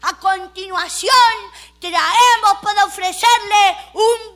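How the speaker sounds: high, slow, loud lot announcement; auctioneer voice. Retold or imitated. Auctioneer announces the bucket, slow and pompous. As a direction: present the bucket grandly. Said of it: "siguió con la subasta".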